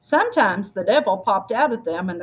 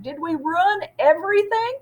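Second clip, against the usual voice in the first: anxious question; 9 semitones higher than usual. Acted. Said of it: "calling out".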